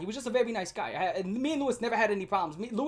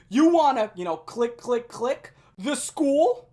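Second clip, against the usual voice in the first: loud, high taunt with mimed clicking sounds; loud mocking yell; 3 semitones higher, 7 dB louder, much slower than usual. Classmate taunting Lewis in class, loud mocking yell. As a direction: shout the taunt for the whole room. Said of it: "yell this at the top of his lungs".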